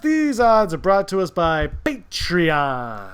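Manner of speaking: slow announcer-style sponsor line; ad read. Acted.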